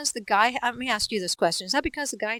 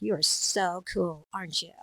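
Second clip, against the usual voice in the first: put-on mean girl; 3 semitones lower than usual. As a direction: sneer a fake compliment. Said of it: "I can be the mean girl".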